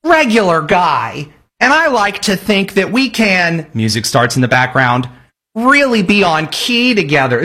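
put-on slow, sing-song theater kid voice. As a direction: play a lightly hammed-up earnest theater kid. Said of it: "these theater kids were like".

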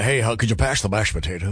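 a lightly voiced take on the same guy at the dinner table; imitating the morning guy. Cohost pictures the morning guy at dinner, a light mock impression. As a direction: play him at home as if he were still on air. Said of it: "He talked like this all the time".

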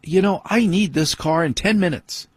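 wife coming out to reclaim the car, a touch mocking; wife's demand. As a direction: lightly mimic the wife's nagging. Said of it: "my wife coming out going".

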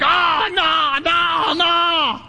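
high, strained mock shout of no; pained cabbies. Hungry cabbies begging Jim to stop listing food, high mock wail. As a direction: wail it like starving men begging him to stop. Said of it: "And they're like".

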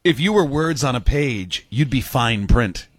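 slow, drawn-out chat-up line; pickup-line voice. Acted. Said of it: "why do I do it in that voice".

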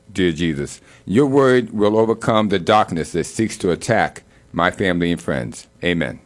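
earnest spoken prayer, steady and devout. Acted. Host praying aloud for family and friends, devout prayer voice. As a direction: pray over your family with conviction.

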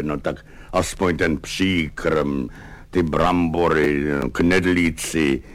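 low, humble pleading soldier; Baloun's whiny plea. Acted. Hungry orderly begging his officer for double rations, meekly pleading.

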